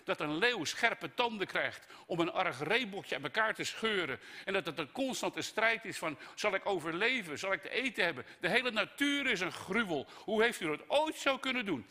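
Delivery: high, loud tirade building to outrage; indignant Job. Acted. Job accusing God over cruel nature, outraged. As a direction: throw every complaint at God's feet. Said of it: "Job gooit God alles voor zijn voeten".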